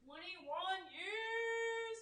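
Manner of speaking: high, slow, sung-out cry; excited singsong. Real, not acted. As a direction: belt it out with joy. Excited shout of years married.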